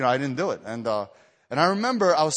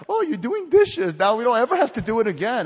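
mocking siblings; 7 semitones higher, 5 dB louder than usual. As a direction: tease him like a smug little sister. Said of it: "they started making fun of me".

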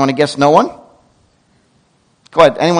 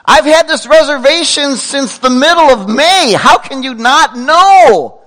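louder, higher, indignant complaint; mock upset customer; 9 semitones higher, 4 dB louder than usual. Preacher playing an upset guest, indignant. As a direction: huff like an offended hotel guest. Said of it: "We get upset".

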